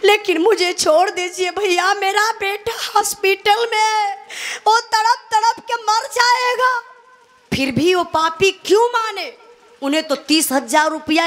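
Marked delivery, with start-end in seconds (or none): 0.0-6.8 pleading, climbing much higher toward the end; desperate pleading mother. Acted. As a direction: beg for your sick son's life. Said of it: "आरती बोलती है".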